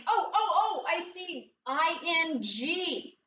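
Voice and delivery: put-on high, excited "Oh, oh, oh" of a child spotting a suffix; mock discovery. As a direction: act out a kid who thinks he has found it. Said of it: "you first think".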